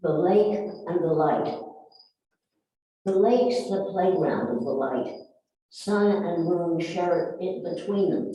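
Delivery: measured recital, stressed openings falling away; poem reading. Acted. Poet describes sun and moon on lake, poem reading. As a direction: read the verse in even phrases.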